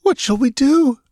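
high, small, frightened whimper; a high whimper asking the wounded barbarian. Acted. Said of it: "she whimpered".

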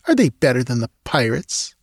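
scornful. Acted. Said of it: "she asked scornfully".

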